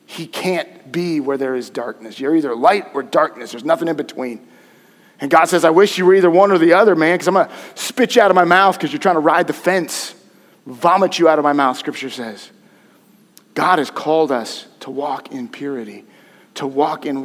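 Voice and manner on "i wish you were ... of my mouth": voicing God. God voiced in sermon.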